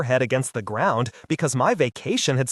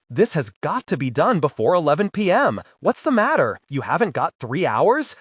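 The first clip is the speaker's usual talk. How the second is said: pleading; 2 semitones higher than usual. Acted. Agent begs his chief not to cancel his vacation, pleading. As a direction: beg him to send someone else. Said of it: "I pleaded".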